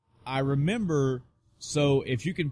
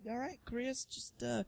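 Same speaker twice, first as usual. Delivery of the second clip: mock technician; 11 semitones higher than usual. Technician calmly plugging Chris into the Matrix. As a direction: play a calm Matrix operator.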